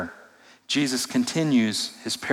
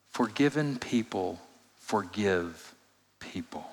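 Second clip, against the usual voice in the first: hushed point; 5 semitones lower, 11 dB quieter, slower than usual. Real, not acted. Sermon's key point, fading.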